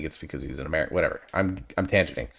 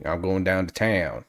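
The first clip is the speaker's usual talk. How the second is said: Southern drawl demo; slower than usual. Shown as a demonstration. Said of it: "that Southern twang".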